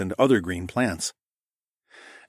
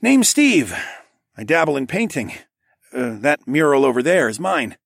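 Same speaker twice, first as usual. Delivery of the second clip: higher, louder, proud townsman; Steve voice; 6 semitones higher, 4 dB louder than usual. A narrator's reading. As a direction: announce yourself proudly as Steve. Steve introduces himself.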